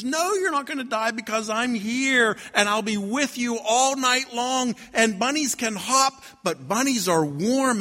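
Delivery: reassuring bunny. Acted. Bunny reassures the baby mouse.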